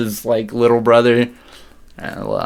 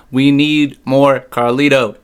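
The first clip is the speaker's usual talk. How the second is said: emphatic; 3 semitones higher, 5 dB louder, slower than usual. Real, not acted. Emphatic fan demand, louder.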